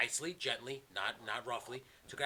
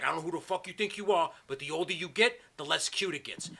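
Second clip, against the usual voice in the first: raised-voice retold scolding; re-enacted telling-off, higher and louder; letting him have it; 7 semitones higher, 7 dB louder than usual. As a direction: act out putting a cheeky kid in his place. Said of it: "I just let him have it".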